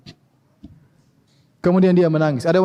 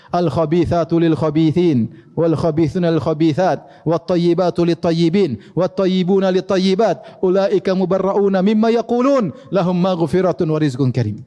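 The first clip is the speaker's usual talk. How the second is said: slow, measured chant of the verses; Quran recitation; slower than usual. Acted. Preacher reciting the An-Nur verses to the congregation, slow and measured. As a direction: recite slowly with devotion.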